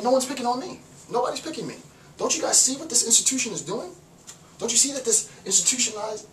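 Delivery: a mock-angry outburst; pissed-off rant. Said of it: "And he gets pissed".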